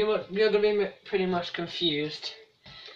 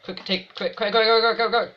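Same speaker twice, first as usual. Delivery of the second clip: excited shout; 6 semitones higher, 6 dB louder than usual. Real, not acted. Urging player during attack.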